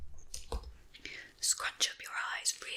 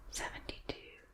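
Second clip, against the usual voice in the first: hearing-test whisper; 6 dB quieter than usual. Shown as a demonstration. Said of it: "I'm just going to whisper into each ear".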